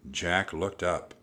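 plain reading voice

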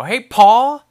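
loud, high call up to the house; yelling up to dad. Retold or imitated. Son shouting up to his dad at the lake house, loud high call. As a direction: shout it up the stairs with a rising end. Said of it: "that's how you gotta say it".

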